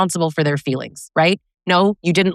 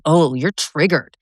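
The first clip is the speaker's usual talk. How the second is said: mocking dismissal; slower than usual. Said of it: "then going".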